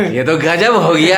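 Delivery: laugh, then say it with real amusement; chuckling in disbelief; amused laughter. Real, not acted. Reporter to muddled voter, laughing in amazement.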